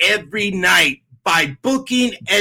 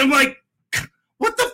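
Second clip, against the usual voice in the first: usual speaking voice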